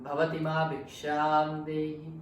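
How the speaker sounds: mock monk's call for alms; monk asking alms. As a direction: chant the alms request to the house. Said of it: "He said".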